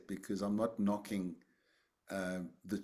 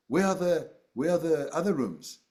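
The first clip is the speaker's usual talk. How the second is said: surprised monk; 6 semitones higher, 6 dB louder than usual. Retold or imitated. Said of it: "and he says".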